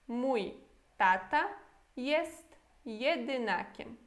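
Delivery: Mój, tata, jest jedynakiem each set apart by pauses, slowly; word by word. Shown as a demonstration. Teacher repeats the sentence for learners word by word, slow. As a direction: break the sentence into single words with pauses. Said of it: "E a frase toda?".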